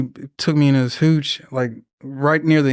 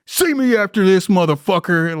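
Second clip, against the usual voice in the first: mock sergeant threat; 4 semitones higher than usual.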